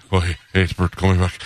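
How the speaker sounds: frantic Bert. Retold or imitated. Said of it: "my Bert's a frantic Bert".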